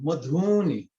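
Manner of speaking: "madhuni" with short ma and ni and a long nasal dhu. Shown as a demonstration. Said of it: "longer nasal sound".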